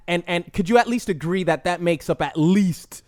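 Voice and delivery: normal talking voice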